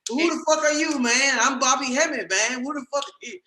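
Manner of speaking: high-pitched mock challenge; playful impression, indignantly introducing himself; Bobby Hemmett. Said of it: "that's what reminded me of Bobby".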